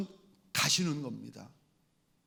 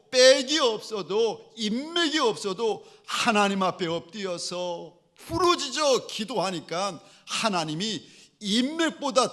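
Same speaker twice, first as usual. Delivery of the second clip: impassioned preaching; 5 semitones higher, 5 dB louder than usual. Real, not acted. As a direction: preach with fervour, pressing each contrast. Preaches with rising force.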